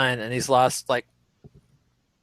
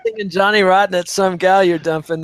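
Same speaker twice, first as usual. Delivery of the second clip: laughing; 4 semitones higher, 4 dB louder than usual. Real, not acted. Laughing at the shout.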